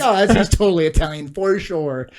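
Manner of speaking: put-on loud, hammy Italian accent; mock Italian, played up; horrible Italian accent. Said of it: "I said it that way".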